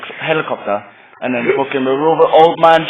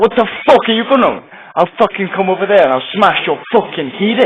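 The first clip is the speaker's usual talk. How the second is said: mock threat; 5 semitones higher than usual. Raver threatening the bank teller, hammed-up anger.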